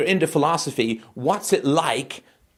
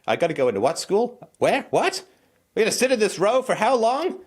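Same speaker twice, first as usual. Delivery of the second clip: put-on whiny child; 7 semitones higher than usual. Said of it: "into the mind of a child".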